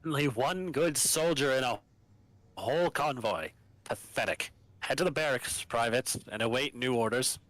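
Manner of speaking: lightly voiced formal governor; a hint of a stern military governor; Medina voice. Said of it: "You can voice Medina".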